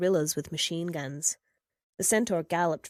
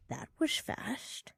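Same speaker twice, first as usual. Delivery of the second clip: rasped; 4 semitones higher, 8 dB quieter, slower than usual. A narrator's reading. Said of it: "she rasped".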